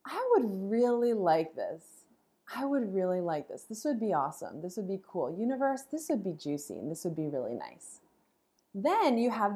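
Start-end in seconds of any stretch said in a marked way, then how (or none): 0.1-8.0 energy of having. Shown as a demonstration. Teacher showing students asking with having energy, calm and content. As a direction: savour "I would really like this" as if it's already yours. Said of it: "with the energy of having".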